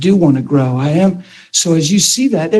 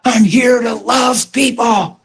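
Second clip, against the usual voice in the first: slow shout; 5 semitones higher, slower than usual. Retold or imitated. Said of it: "And I was like".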